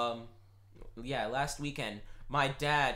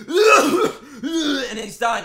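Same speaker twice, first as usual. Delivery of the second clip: laughing out the words; 9 semitones higher, 12 dB louder, much slower than usual. Real, not acted. Laughing through story.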